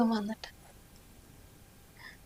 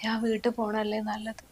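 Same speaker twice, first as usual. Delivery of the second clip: sad whisper; 5 dB quieter than usual. Real, not acted. Sick wife offers to leave.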